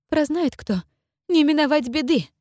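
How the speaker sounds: high, hushed sinister warning; ominous warning. Acted. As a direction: warn darkly like a scheming boyar woman. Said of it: "зловеще добавила боярыня".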